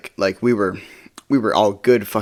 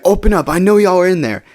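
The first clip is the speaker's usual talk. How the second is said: higher-pitched imitation of a demanding ex; mock angry demand; 7 semitones higher, 4 dB louder than usual. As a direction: call through the door, acted lightly. Angry ex shouting through door.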